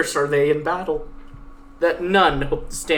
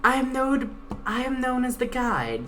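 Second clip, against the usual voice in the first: lightly voiced stern guide, pitched a bit higher; 8 semitones higher, 4 dB quieter than usual. Guide threatening the Pegasus at knifepoint, lightly voiced stern menace. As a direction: threaten coldly as the blade-holding guide.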